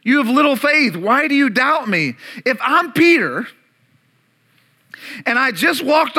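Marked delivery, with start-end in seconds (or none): 0.0-2.2 scolding. Acted. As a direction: scold Peter with a raised voice. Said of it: "but then Jesus scolds him".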